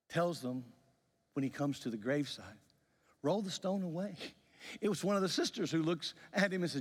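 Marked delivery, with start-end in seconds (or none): 3.2-4.2 higher, open-ended instruction; acted command. Jesus arriving at the graveside, higher-pitched first command. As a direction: give the order lightly, pitched up.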